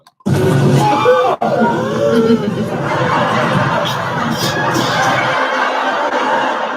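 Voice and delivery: loud high shrieking cackle; howling laugh. Real, not acted. Host cracking up at a viewer's comment, shrieking with laughter. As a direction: burst out laughing and shouting. Big laugh after Blossom mention.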